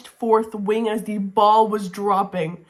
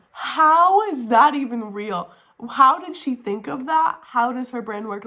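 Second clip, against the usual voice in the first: amazed disbelief; 3 semitones higher than usual. Real, not acted. Reviewer marveling at the heroine's cleverness, amazed.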